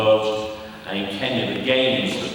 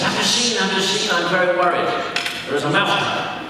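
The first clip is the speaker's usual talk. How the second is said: high, anxious little mouse voice; worried mouse; 11 semitones higher than usual. Acted. Mouse warns the chicken about the mousetrap, high and worried. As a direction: fret like a panicked mouse.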